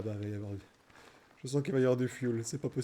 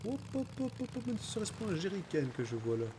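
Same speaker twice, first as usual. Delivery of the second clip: playful sing-song; 5 semitones higher, 4 dB quieter than usual. Pretend. Playful hop calls, pitch jump.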